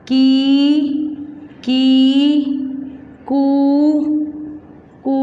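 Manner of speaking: each syllable drawn out; slow syllable drill. Shown as a demonstration. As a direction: call out syllables one by one for children. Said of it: "एक बार में सब बोलो". (धीरे-धीरे मात्रा वाले अक्षर बोलना)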